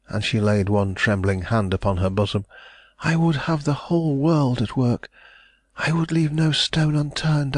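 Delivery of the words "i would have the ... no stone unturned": put-on higher, eager and anxious young woman; hopeful heiress pressing for news; young lady, anxious. A narrator's reading. Mary greets the visitor hoping for news, higher, anxious.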